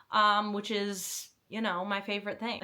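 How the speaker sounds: dry sarcastic aside. Acted. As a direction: say it with mock enthusiasm. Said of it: "she says sarcastically".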